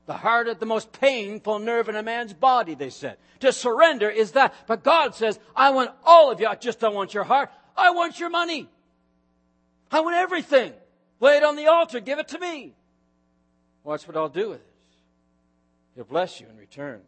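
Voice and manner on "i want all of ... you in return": demand, then promise it tenderly. Acted. God's voice, building then fading.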